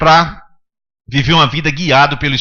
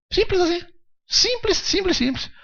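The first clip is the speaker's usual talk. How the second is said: much higher, softer singsong; playful; 13 semitones higher, 6 dB quieter than usual. Acted. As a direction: toss it off lightly. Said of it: "playful repetition".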